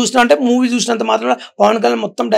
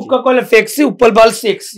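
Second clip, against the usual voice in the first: own punch dialogue; 3 semitones higher than usual. Shown as a demonstration. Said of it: "మీరు చెప్పండి".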